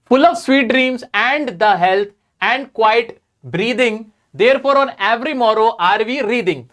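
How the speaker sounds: reads each English line very slowly and evenly; slow poem recitation. Acted. Teacher reading a Keats line to students, very slow recitation. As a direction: savour the verse word by word.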